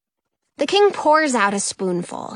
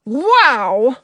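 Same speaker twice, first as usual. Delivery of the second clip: exclaiming; 6 dB louder than usual. A narrator's reading. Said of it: "King Ned exclaims".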